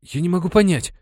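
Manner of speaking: put-on frightened boy mumbling a reply; babbling. A narrator's reading. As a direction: stumble over the words in fright. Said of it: "пролопотал Вахитика".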